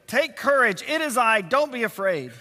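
three short phrases in quick succession; brisk, urgent reassurance; said quickly. Shown as a demonstration. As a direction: run the reassurances close together.

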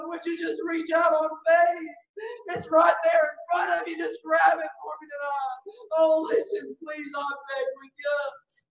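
crying out, urging them to take it; tearful plea. Real, not acted. Preacher urging sinners to reach out, crying. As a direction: beg through tears.

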